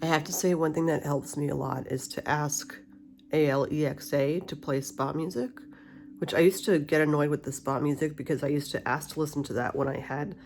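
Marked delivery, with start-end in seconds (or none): 0.0-7.5 talking with a retainer in; wearing a retainer. Real, not acted. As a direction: retainer in the mouth, slightly blocked speech. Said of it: "I have my retainer in".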